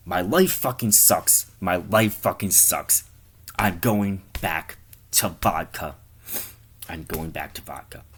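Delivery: slow, mildly defeated grumble; dejected. Acted. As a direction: drag the words out in mock despair. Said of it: "now it falls to a frown".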